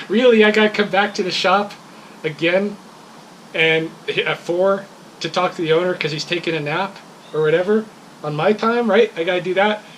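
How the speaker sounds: retold outrage at being sent away; exasperated retelling. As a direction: vent the annoyance like it's happening again. Fed up with store owner napping.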